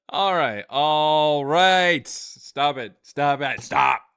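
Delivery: loud, emphatic self-command; scolding himself. Real, not acted. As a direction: force yourself to stop laughing. Orders self to stop laughing.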